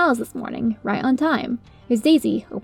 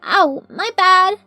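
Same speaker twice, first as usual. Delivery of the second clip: dopey yelp; 8 semitones higher, 5 dB louder, much slower than usual. Acted. Derpy falls.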